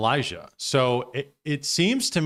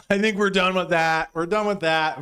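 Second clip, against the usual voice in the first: laughing; 5 semitones higher than usual. Real, not acted. Repeats line while laughing.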